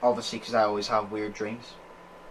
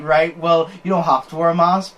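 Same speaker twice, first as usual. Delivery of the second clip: louder, higher mock concession; sarcastic; 4 semitones higher, 6 dB louder than usual. Shop guy putting customer in his place, sarcastic. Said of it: "the sarcasm putting in his place and then be like".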